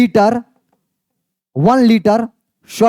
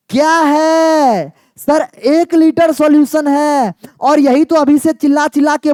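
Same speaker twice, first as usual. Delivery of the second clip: higher, slow, stretched-out sigh of disbelief; drawn-out exasperation; 5 semitones higher, slower than usual. Acted. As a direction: drag it out like you can't believe it. Teacher exasperated at dreaming student. (ऊँची, धीमी, खिंची हुई झुंझलाहट)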